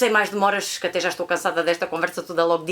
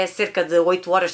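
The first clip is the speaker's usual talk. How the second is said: ordinary talk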